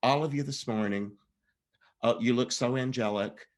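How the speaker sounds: pointed, sarcastic tone. Retelling what the principal said to the rounded-up boys: imitating sarcastic nun. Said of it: "she went into this sarcastic thing".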